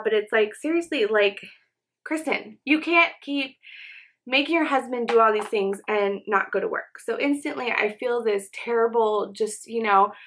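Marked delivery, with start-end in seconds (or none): 0.6-5.8 raised pitch, chiding herself by name; a mock stern inner voice scolding herself; self-scolding. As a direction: tell yourself off sharply. Scolding herself in her head.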